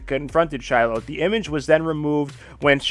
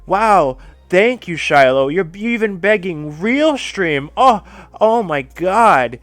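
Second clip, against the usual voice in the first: drawn-out sarcastic thanks, louder; mock gratitude; 4 semitones higher, 4 dB louder, slower than usual. Streamer mocking the woman who begs everyone, slow sarcastic thanks. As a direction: sneer the thanks slowly.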